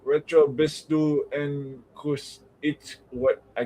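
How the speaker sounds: slow, halting try at German "Retro bistu en kus"; struggling German. Real, not acted. Reading a fan's German message, slow and unsure. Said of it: "can't fucking pronounce".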